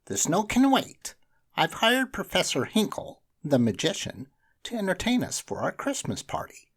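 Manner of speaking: high, loud teacher announcing; a bright teacher telling the class news. A narrator's reading. Teacher announcing the magician to the class.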